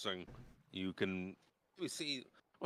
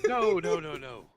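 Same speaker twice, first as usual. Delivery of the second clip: high loud protest; 6 semitones higher, 7 dB louder than usual. Acted. Dalamar protests.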